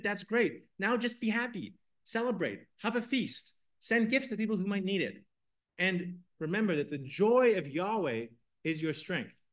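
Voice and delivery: high, bright call to celebrate, slowing on the last line; joyful urging. Acted. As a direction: cheer them into feasting. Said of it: "they're running around the crowd saying".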